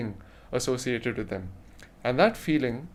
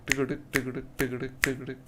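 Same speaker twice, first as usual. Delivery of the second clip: rhythmic quick tick-a-tick; soft, rhythmic hoofbeat chant; horse hooves; 4 dB quieter, faster than usual. Shown as a demonstration. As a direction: imitate galloping hooves softly. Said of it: "the sound of a horse going".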